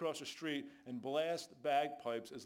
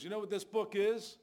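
sudden lifted, higher question; piping up; 4 semitones higher, 4 dB louder than usual. Retold or imitated. Groggy buddy suddenly speaks about the Bible, piping up. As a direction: pipe up out of nowhere, a bit louder. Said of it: "he just pipes up and says".

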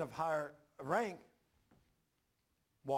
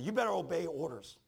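mildly raised, commanding voice; retold yelling; 2 semitones higher, 5 dB louder than usual. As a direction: imitate a brother giving a firm order. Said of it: "he's yelling at me".

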